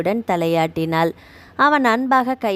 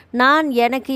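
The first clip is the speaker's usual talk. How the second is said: drawn-out hesitant words; 4 semitones higher than usual. Acted. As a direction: stretch out நான் and எனக்கு, hesitating. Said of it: "என்ற வார்த்தைகளை இழுத்த". (நான் எனக்கு என்று தயங்கி இழுத்து)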